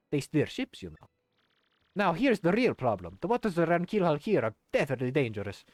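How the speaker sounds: put-on Italian-accented game character, lively and sing-song. Flavio explains the missing navigator to the crew, Italian voice. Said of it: "the kind of Italian voice".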